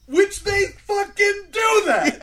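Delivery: high, loud, slow exclamation; outraged. Real, not acted. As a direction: yell it out in disbelief.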